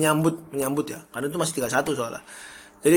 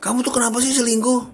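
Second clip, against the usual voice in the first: high-pitched mock accusation of cheating; hammed-up jealous girlfriend whine; jealous partner; 9 semitones higher than usual. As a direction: play the suspicious partner, voice pushed up high. Voicing jealous angry partner.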